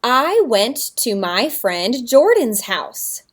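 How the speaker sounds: slow, word-by-word reading aloud; slow pointed reading. Shown as a demonstration. Teacher reading her story to the class, slow. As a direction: read each word as if pointing. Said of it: "get my reading finger out".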